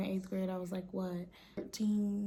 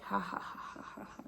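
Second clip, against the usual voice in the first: imitating eerie laugh; 10 dB quieter than usual. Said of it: "going like this".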